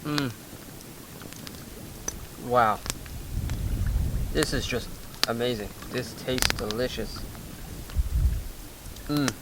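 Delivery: hushed, slow savoring praise; savoring delicious food. Real, not acted. Eating fish, hushed praise.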